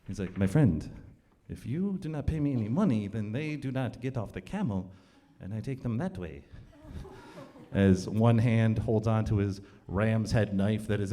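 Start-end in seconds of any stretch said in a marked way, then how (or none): 0.4-6.4 lower, measured camel driver's threat; acted cold ultimatum; veiled threat. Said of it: "his demeanor changes".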